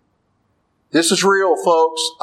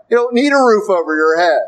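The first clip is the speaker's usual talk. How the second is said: emphatic preaching; 5 semitones higher, 4 dB louder, faster than usual. Real, not acted. Preacher refuting objection forcefully.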